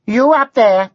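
high, lilting Welsh sing-song dragon. A narrator's reading. Dragon calls up to the knight, lilting Welsh sing-song. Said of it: "the dragon had a lilting sing-song voice".

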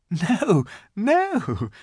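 put-on high, lightly amused little girl; a touch of laughter, pitched high; laughing protest. A narrator's reading. Lucy corrects the giant's mistake, lightly amused.

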